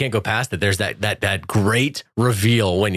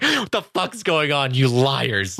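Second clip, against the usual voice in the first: mock outraged accusation; 4 semitones higher, slower than usual. Acts out accusation, laughing.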